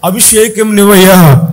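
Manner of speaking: urgent, rhythmic pleading; imploring God, drawing out the last pleas; acted prayer cry. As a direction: plead insistently in repeated waves. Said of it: "వేసిన కేకలు ఏంటంటే".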